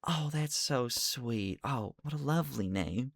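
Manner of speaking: high, tender coo; soft admiring voice; cooing at a pet. Acted. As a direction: fuss over the sweet creature. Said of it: "It's just like".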